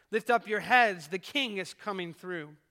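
loud opening cry that settles down; acted proclamation. The king at hell's gates, cried out in recitation. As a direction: call it out like a herald, then ease. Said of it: "he shook hell's gates and cried".

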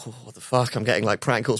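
soft, groggy confusion; baffled mumble into the phone; understated morning-after dismay; hungover bafflement. Retold or imitated. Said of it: "wakes up with a splitting hangover".

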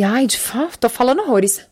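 falando entre goles de água; bebendo água. Real, not acted. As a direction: fale entre um gole e outro. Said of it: "deixa eu dar um gole aqui". (voz de quem está bebendo água)

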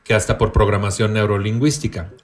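even, measured read-aloud of a definition. Acted. Host reads a written definition to the co-hosts, reading aloud. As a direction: read it out like a reference entry.

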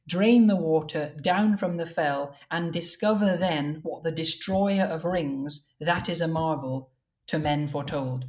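slow, measured verse reading; verse recital. Shown as a demonstration. Translator reading his reworked stanza, measured recital. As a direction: recite the lines evenly, taking your time.

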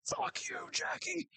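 mock bitter laugh, then a high "fuck you"; hammed-up bitter retort, laughing into it; bitter chuckle. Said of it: "chuckles bitterly and is like".

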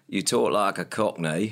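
slow, lightly done Cockney; half-hearted Cockney at an easy, dragged pace. Shown as a demonstration. Co-host showing how a singer talks, slow Cockney. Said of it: "which I will now do".

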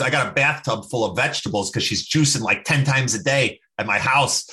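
amateur Boston accent imitation; Dante. Buddy describing his houseguest's juicing, bad Boston accent. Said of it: "gonna do a terrible Boston accent".

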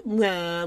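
lazy imitated groan; slobbish groan. Host mimics a woman lounging on the couch, slobbish groan. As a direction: groan like someone slumped on the couch. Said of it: "like a slob".

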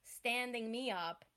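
drawn-out, furious scolding; mock angry reaming. Woman reams her no-show date with drawn-out fury. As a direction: spit each word out slowly at him. She reams him at bar.

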